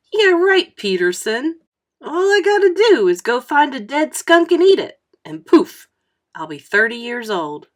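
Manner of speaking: high, loud scoffing taunt; a boy scoffing at his friend, high and loud; mocking scoff. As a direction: laugh off his idea with loud sarcasm. Mocking friend's silly idea.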